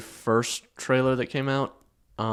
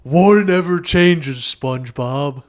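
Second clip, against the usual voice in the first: shouted Fallout line; 3 semitones higher, 8 dB louder, slower than usual. Pretend. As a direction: belt the line out, slow and big. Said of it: "a Fallout style intro of SpongeBob".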